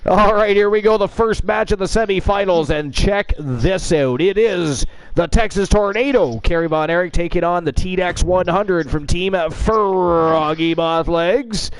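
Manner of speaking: hyped-up ring announcer intro. Acted. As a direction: sell the matchup like a ring announcer. Host introduces semifinal match.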